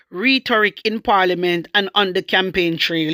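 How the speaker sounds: even, measured newsreader delivery; news read. Real, not acted. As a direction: read out a news report formally. Reads a news report aloud.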